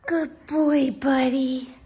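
high, giggling pet praise; laughing praise. Real, not acted. Owner praising dog Remy, laughing hard. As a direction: praise him while still cracking up.

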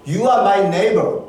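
stretched out very slowly, word by word; slow quoted words. Retold or imitated. Pastor recalling the woman's thanks, slow and savoring. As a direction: savor each word of her line.

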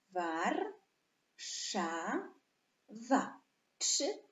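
"Warszawa" in separated syllables, "War", "sza", "wa", then the count; podział na sylaby. Shown as a demonstration. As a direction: count out "Warszawa" with long gaps between syllables. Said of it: "Ile sylab ma słowo Warszawa?". („Warszawa” z pauzami między sylabami)

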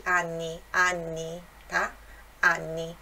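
anni with a held nn; double N. Shown as a demonstration. Teacher showing the double N. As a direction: linger on the nn of anni. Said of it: "duas consoantes aqui, mais forte".

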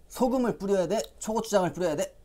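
playful quiz. Acted. Teacher quizzing children.

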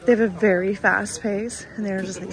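a bit of morning voice. Real, not acted. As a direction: still waking up, morning voice. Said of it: "sorry, my morning voice".

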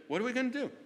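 panicked plotting. Acted. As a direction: sell their panic.

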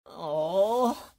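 slow, strained plea for help; stuck and pleading. Acted. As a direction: beg them to free your tongue. Tongue stuck, calling for help.

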